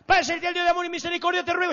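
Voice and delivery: high, loud overblown prayer voice; mock pompous prayer. Preacher mocking a hasty believer, high pompous prayer. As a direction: pray like a showy new believer. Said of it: "Hay gente que dice".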